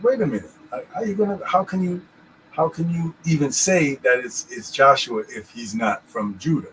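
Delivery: high, disbelieving question; incredulous. Retold or imitated. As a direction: ask it in sudden disbelief.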